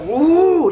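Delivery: high, loud imitated angry "ooh"; mad "ooh". Woman imitating her man getting worked up, mad "ooh". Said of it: "getting mad".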